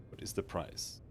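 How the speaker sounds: breathy whispered question; whispering. Acted. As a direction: ask it under your breath. Same question whispered on retry.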